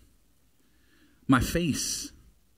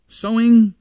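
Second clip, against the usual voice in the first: punched out loud, preacher force; loud emphatic Sowing; emphatic shout; 7 semitones higher, 10 dB louder than usual. Acted. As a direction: hit Sowing hard like a call from the pulpit.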